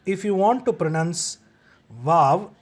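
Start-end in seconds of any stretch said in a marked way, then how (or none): 1.9-2.5 wow begun with a V sound; V pronunciation. Shown as a demonstration. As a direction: say wow as vaw. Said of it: "with the V sound in the beginning".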